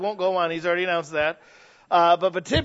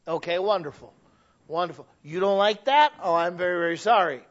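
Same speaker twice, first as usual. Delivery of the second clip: mock polite clay-shaper. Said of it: "you don't sit there and go".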